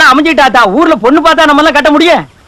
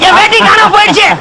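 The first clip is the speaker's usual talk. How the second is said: panicked crying shout; 4 semitones higher than usual. Acted. Man panicking, veshti pulled away.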